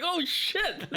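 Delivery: high startled yelp, laughing; jumping at a scare with a laugh. Retold or imitated. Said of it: "and I was just like".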